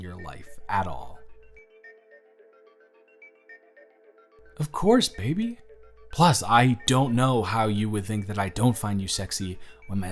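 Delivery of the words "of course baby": high, sweet reassurance; affectionate assent. Acted. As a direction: lift the pitch as you reassure. Answering partner's request for reassurance.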